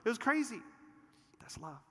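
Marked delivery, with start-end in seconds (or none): 1.4-1.8 hushed. Real, not acted. Hushed conclusion.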